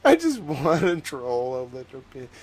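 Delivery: playfully hammed-up Southern man; troll with a put-on Southern accent; in-character Southern accent. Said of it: "do it in character".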